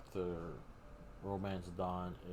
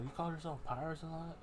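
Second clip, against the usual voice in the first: put-on upset kid Luffy; 10 semitones higher, faster than usual. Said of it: "Luffy gets upset".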